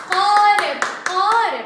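قارب said loud with a hard initial qaf; stressed qaf. Shown as a demonstration. Teacher stressing qaf in a picture word, loud and firm. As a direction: punch the qaf at the start. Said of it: "أنطق بها بصوت القاف".

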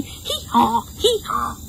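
high hee-haw, rising on the repeat; donkey bray. Shown as a demonstration. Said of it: "Can you hee-haw like a donkey?".

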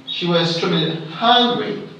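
main stress falls on "hungry". Shown as a demonstration. Teacher showing standard stress, weight on "hungry". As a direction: let "hungry" carry the sentence. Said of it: "standard stress here should be hungry".

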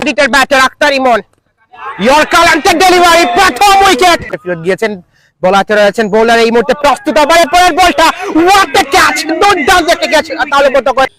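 lively live play-by-play; cricket commentary. Real, not acted. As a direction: call the match ball by ball. (ক্রিকেট ধারাভাষ্য)

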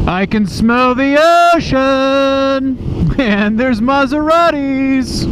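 slow, high, grand announcer voice; mock dramatic narrator. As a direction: draw it out like a movie trailer.

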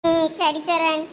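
subdued, faintly tearful reply. Acted. Giving in to a friend's comforting, mildly tearful. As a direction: answer as if just done crying. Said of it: "எதுக்கு இப்ப நீ அழுதுகிட்டு இருக்க".

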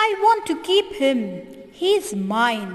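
put-on boy claiming bird, loud fast shout. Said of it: "shouts the boy".

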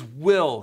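"Will" said low, alone and firm; emphatic will. Shown as a demonstration. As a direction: drop the single word "Will" like a certainty. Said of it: "man and God put together says".

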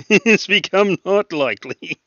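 amused disbelief at the forecast; laughing. Real, not acted. Mocking a weather forecast with a friend, laughing.

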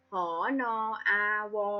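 หอนออาวอ said letter by letter; spelled out. Shown as a demonstration. Teacher breaking a word into letters for pupils, spelled out. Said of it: "อ่านออกเสียงอักษรตัวหลัง".

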